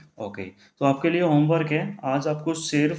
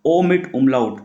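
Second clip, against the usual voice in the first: slow dictation; 4 dB louder, much slower than usual. Shown as a demonstration. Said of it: "उसको क्या पढ़ेंगे हम लोग".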